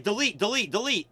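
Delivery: retold pestering command; imitated demand. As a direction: mimic someone insisting, word by word. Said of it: "they're like".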